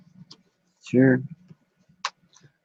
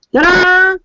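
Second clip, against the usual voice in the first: ta-da reveal; 10 semitones higher, 7 dB louder than usual. Real, not acted. Presenting the guest on screen.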